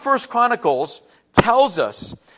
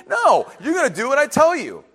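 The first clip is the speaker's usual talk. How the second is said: firm parental order; 5 semitones higher than usual. Retold or imitated. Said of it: "and it was quick".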